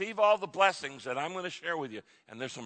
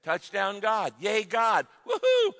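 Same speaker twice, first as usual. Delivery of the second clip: cheering praise; 3 semitones higher, 4 dB louder than usual. Acted. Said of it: "lift our hands and praise God and say".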